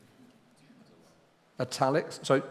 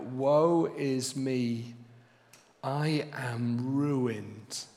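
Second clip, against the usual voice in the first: sorrowful lament; much slower than usual. Acted. Isaiah's cry before God.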